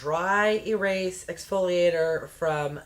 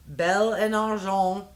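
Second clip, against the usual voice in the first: French accent; 3 dB louder than usual. Shown as a demonstration. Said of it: "pretend like I speak it".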